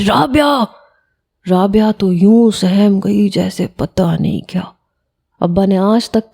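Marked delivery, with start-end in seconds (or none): 0.1-0.6 father roaring at daughter; angry roar. A narrator's reading. Furious father calling his daughter's name, roaring. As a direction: bark the name higher in fury. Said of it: "ایک دھاڑ دھار آواز تھی میرے باپ کی".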